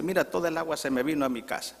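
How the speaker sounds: fast, high-pitched complaint; neighbour shouting. Acted. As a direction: rattle off an irate neighbour's grievance. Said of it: "y viene gritando". (queja airada y rápida de vecino)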